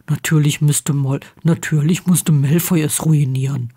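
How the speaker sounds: a hint of a protective pal; Ron, Harry's friend. Ron insists Harry deserves happiness, lightly voiced friend.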